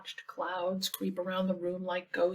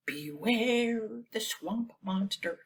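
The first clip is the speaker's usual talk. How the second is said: spooky warning; slower than usual. Acted. Reader recalls spooky warning.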